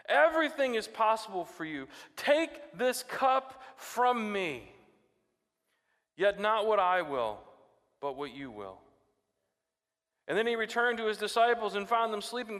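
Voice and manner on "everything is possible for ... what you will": pleading prayer. Retold or imitated. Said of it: "he said".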